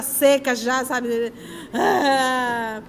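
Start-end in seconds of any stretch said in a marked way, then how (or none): 1.7-2.8 imitated child's wail. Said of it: "e a menina chorando".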